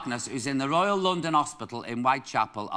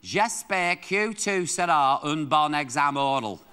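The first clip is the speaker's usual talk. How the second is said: French phrase; slower than usual. Shown as a demonstration. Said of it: "Please say".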